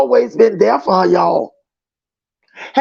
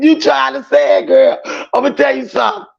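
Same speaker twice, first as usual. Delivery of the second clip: usual speaking voice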